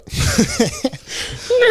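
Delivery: very high horse neigh; horse whinny. Shown as a demonstration. Podcaster showing the only sound effect they have, horse whinny. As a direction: imitate a shrill horse whinny. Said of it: "a horse is pretty much all I got".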